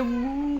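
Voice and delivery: soft imitated baby grumble; pouty "hmm". Mother mimics her scolded baby's face and noise, pouty hum. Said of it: "करके देखती है".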